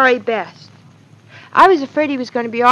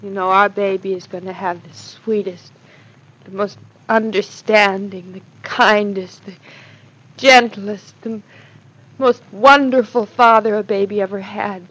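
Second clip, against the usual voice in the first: gentle, adoring, with lingering pauses; tender praise; 3 semitones lower than usual. Acted. Wife telling her husband about their baby's father, tender. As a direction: savor each loving word.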